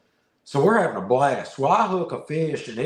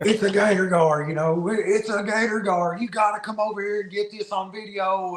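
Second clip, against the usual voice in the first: excited shout; 6 semitones higher than usual. Retold or imitated. Excited retelling of hooking huge fish.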